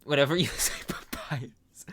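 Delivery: sly unvoiced whisper with a laugh; sinister flower aside; Flowey whisper. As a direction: hiss it mockingly. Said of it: "Flowey voice".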